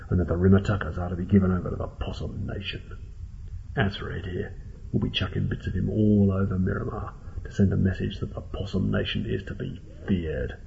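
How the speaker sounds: quiet, measured threat; understated gang-leader menace; menacing possum boss. Acted. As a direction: lay out the terms softly and coldly.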